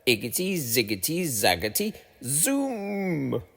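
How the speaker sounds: soft muttered chant; muttered spell. A narrator's reading. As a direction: murmur the magic words. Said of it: "she muttered a spell".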